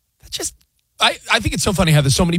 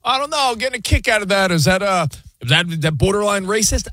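hesitant objector; 5 semitones higher than usual. Retold or imitated. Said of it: "some people that are like".

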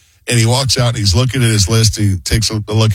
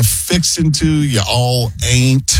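hammed-up Southern drawl; 3 semitones higher, much slower than usual. Shown as a demonstration. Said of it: "Ain't ... sounds not real smart".

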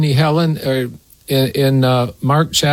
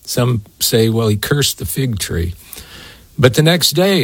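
usual speaking voice

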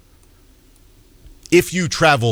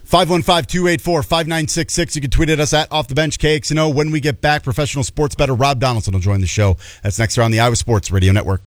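brisk, even radio read, starting higher; radio host's break tease; 3 semitones higher than usual. Acted. Host sends listeners to the break, polished radio read. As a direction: rattle off the show's contact lines.

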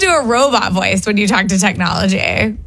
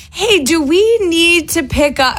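slow, higher dictation voice; talk to text voice; 6 semitones higher, slower than usual. Retold or imitated. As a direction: spell it out slowly for the phone. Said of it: "it'll be like".

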